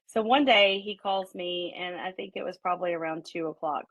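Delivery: ordinary talk, nothing marked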